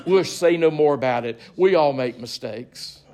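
grand stage actor voice; Shakespearean actor. Acted. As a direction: declaim it like an old ham actor. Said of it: "think about a Shakespearean actor".

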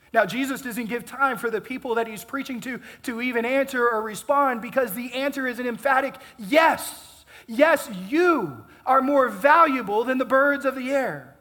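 emphatic preaching. Acted. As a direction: proclaim it like an emphatic yes. Emphatic answer in sermon.

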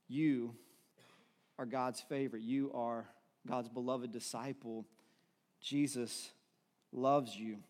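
low, soft and unhurried, with pauses; tender assurance. Real, not acted. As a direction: reassure them gently, letting each phrase settle.

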